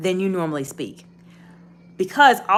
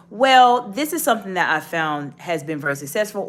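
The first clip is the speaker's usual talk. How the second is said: more affirmative. Shown as a demonstration. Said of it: "raise my voice a bit".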